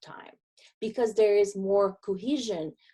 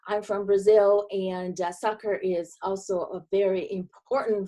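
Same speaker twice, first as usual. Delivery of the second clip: Brazilian accent. Shown as a demonstration. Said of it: "my Southern accent, my friends, here it is".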